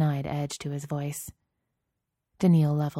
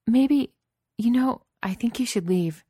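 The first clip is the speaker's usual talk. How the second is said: firm; 7 semitones higher, 4 dB louder than usual. A narrator's reading. Wife tells husband to leave.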